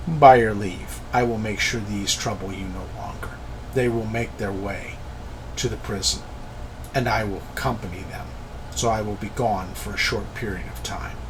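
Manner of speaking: put-on soft, measured voice with a light African accent; slight African accent. Keledek promises the council punishment, quiet slight African accent. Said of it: "slight accent, almost an African accent".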